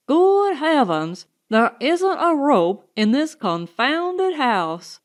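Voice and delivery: a frantic man who can't find a rope; exasperated outburst. Acted. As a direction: curse the house in frustration.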